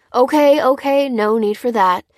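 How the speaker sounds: head off trouble urgently; alarmed backing down, voice lifted; hasty placating. Acted. Dan hurriedly heads off the guard.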